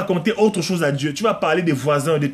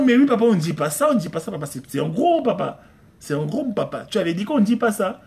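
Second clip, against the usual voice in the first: imitated daughter; 4 semitones higher than usual. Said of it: "c'est ma fille, ça".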